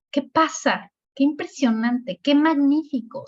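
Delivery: exclamaciones de muestra, algo agudas; exclamación de ejemplo. Shown as a demonstration. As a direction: exclama como ejemplo de clase. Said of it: "cuando yo estoy excla". (exclamación didáctica, en tono alto)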